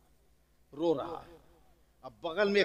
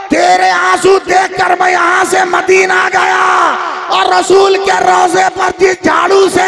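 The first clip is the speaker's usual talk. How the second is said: excited crow shouting; 14 semitones higher, 15 dB louder than usual. Acted. Preacher voicing the crow shouting to the pigeon, high and loud. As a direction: burst in breathless and yell it to the heavens.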